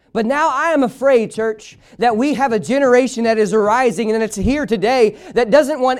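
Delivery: driving, sustained sermon delivery; impassioned preaching. Real, not acted. Preacher to church about a godless generation, impassioned preaching. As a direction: preach it hard without letting up.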